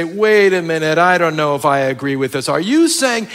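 imitating a skeptic pushing back; skeptical objector. Preacher mimics a doubting listener, mock objection. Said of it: "the tendency is to say".

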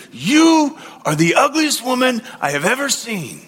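hammed-up parrot squawking the insult; shouting parrot. Parrot shouts its insult on the third day, hammed-up. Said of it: "again the parrot looked at her and said".

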